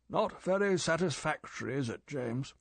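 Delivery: lightly voiced stern old chief; clipped disapproval from the boss. M stern at Bond.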